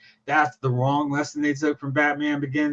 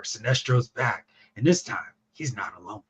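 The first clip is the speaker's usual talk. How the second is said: deep dramatic trailer read; movie trailer narrator; 4 semitones lower, 5 dB quieter than usual. Pretend. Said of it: "the movie narrator, movie trailer narrator back".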